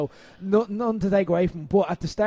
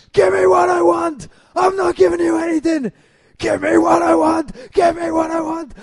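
much higher, much louder repeated yelling; shouting match; 10 semitones higher, 7 dB louder than usual. Retold or imitated. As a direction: trade screamed lines back and forth. Two men screaming at each other.

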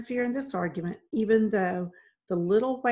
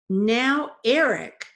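louder, firm wifely insistence; insistent; 4 semitones higher, 7 dB louder, much slower than usual. A narrator's reading. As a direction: press him firmly to listen. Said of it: "she insisted".

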